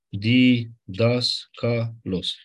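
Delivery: "Di, das, ca, los" split into four clearly separated syllables. Shown as a demonstration. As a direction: spell out each syllable apart. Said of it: "Unu, doi, trei, patru". (silabisit rar, fiecare silabă separat)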